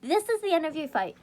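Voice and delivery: a hint of a gravelly old soldier; lightly voiced grim warning; gruff voice. Old age speaking to Snake, mock gruff. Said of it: "That's a terrible Crom impression".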